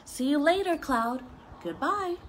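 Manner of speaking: cheery goodbye. Acted. Raindrops saying goodbye to the cloud, cheery.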